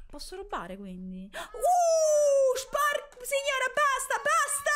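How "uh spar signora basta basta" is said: high, loud panicked yelp; frightened cry. Real, not acted. Scared by game jumpscare. (grido di paura acuto e forte)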